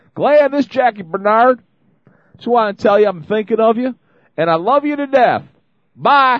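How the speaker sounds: put-on Tennessee accent, pitched high. Retelling a voicemail from Jackie Barnard, imitating Jackie's Tennessee accent. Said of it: "in Jackie's beautiful Tennessee accent".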